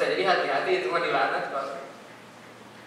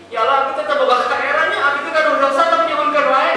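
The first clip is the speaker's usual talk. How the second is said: imitated tearful prayer; 4 semitones higher, 4 dB louder than usual.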